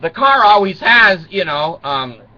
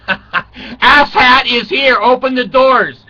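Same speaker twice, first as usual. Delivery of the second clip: talking car voice; 6 semitones higher, 5 dB louder, slower than usual. Pretend. Car's voice greets owner.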